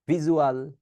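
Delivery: 'ভিজুয়াল' begun with a plain b, bijual; mistaken b sound. Shown as a demonstration. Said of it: "sorry, ভিজুয়াল না". ('ভিজুয়াল'-কে বিজুয়াল বলা)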